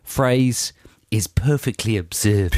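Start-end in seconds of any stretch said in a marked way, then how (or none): 1.3-2.5 put-on Australian accent. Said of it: "uh, Australian accent".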